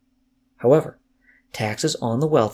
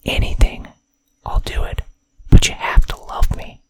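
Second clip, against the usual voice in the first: loud breathy stage whisper; 4 dB louder than usual. Pretend. Teasing viewers with a loud mock-creepy whisper. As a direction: hiss it out as a mock-creepy secret.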